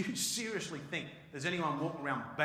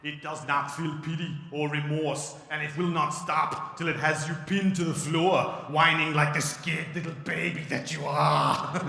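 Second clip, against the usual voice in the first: slow, louder robotic menace; cold machine that will not stop; Terminator voice; 9 dB louder than usual. Pretend. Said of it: "Change is like the Terminator".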